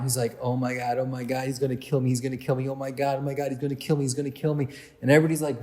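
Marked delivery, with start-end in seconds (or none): 0.4-4.7 low, hushed panicky babble, imitated; mock panic on repeat; freaking out. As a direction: rattle it off fast under the breath. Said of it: "he's just freaking out".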